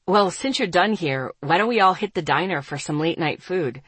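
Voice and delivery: lightly voiced easygoing male figure; a hint of a casual man's voice; Asher, casual offer.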